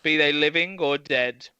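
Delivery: slow, grand storybook reading; storyteller voice. Shown as a demonstration. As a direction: read it like an epic tale. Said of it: "It's my best storyteller voice".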